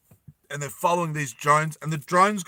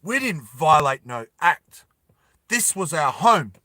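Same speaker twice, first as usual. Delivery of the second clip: defiant mother; 5 dB louder than usual. Acted. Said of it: "And the mother goes".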